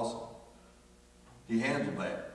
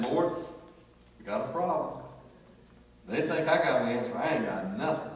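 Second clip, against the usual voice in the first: loud retold prayer; 3 semitones higher, 5 dB louder than usual. Loudly retold prayer to the Lord.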